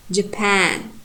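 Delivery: "Japan" with reduced first syllable, strong PAN; stress on PAN. Shown as a demonstration. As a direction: lean on the second syllable of "Japan". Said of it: "The second syllable should be strong".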